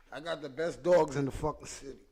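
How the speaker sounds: said out loud, full voice. Real, not acted. To viewers about his dogs, proud full voice. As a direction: announce it proudly to everyone.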